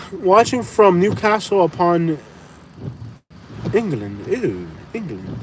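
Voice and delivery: slow, badly faked Newcastle English accent; mock Newcastle accent. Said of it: "This is not how people talk in Newcastle".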